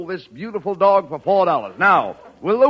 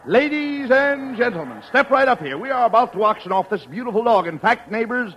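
auctioneer; 4 semitones higher than usual. Acted. Auction pitch to a crowd.

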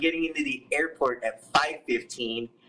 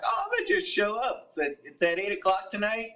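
breezy confidence; 5 semitones higher than usual. Retold or imitated. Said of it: "I'm like".

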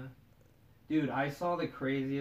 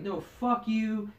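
higher, stretched-out mock insult; mild mock yell, pitched up; retold yelling; 6 semitones higher than usual. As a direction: imitate her cursing him out. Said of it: "this chick was yelling".

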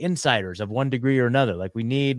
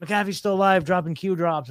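mock excited gasp; 6 semitones higher than usual. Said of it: "everyone's like".

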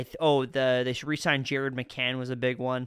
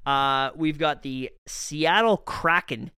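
slow monster growl on Kraken; sea monster voice; 5 dB louder, slower than usual. Pretend. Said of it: "that's me sounding like a kraken".

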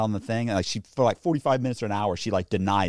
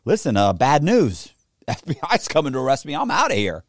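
louder, higher breaking of bad news; retold announcement; 4 semitones higher, 5 dB louder than usual. Man telling girlfriend he's fleeing the FBI, emphatic. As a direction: announce a hasty exit, raised voice. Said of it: "I was like".

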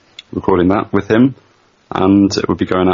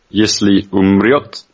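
slow Russian demo. Shown as a demonstration. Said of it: "translate that into Russian for me".

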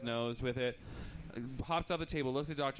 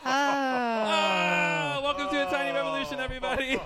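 big laughing showman welcome, much higher and louder; 14 semitones higher, 9 dB louder than usual. Real, not acted. Host greets the crowd after his joke, laughing and loud. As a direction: belt it out through laughter.

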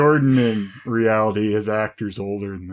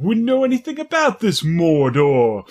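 playful mock innocent; 6 semitones higher than usual. Reply in acted scene.

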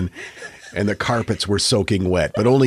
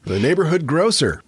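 mock announcement; 6 semitones higher than usual. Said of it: "is something funny at our house".

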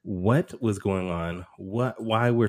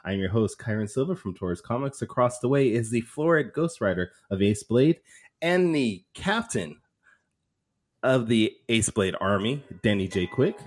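announcer. Acted. Formal show intro read.

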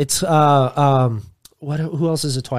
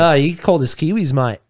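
put-on Aussie complaint; casual Australian accent, landing on "mate"; mock Australian accent. Showing a friend how it goes, mock Australian accent. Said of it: "How long have I been doing this accent".

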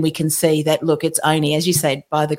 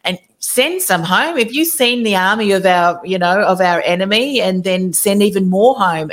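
incredulous echo; 2 semitones higher than usual. Acted. Gideon objecting to God about the enemy army, incredulous. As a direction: question the order as if it were absurd. Gideon's side queries God's order.

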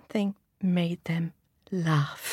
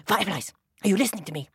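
impatient; much faster than usual. Acted. Dragonfly snaps at fireflies.

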